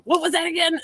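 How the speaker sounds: high-pitched mock puzzlement; puzzled self-quote. Poet recalling her lost idea after recording, puzzled self-quote.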